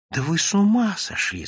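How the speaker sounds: высокий испуганный окрик, без шёпота; одёрни собеседника повышенным тоном; испуганное шиканье. A narrator's reading. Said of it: "зашикал Евсей Львович". (испуганно шикая)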